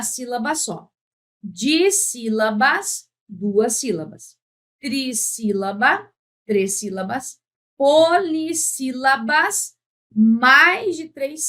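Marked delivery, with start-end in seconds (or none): 1.4-3.1 "Dissílabas" lento e escandido; sílaba por sílaba. Shown as a demonstration. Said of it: "poder cantar a palavra". 4.8-6.1 "Trissílaba" lento, em pedaços; sílaba por sílaba. Shown as a demonstration. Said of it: "poder cantar a palavra". 7.8-9.8 "Polissílabas" lento e mais agudo, escandido; sílaba por sílaba. Shown as a demonstration. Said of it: "poder cantar a palavra".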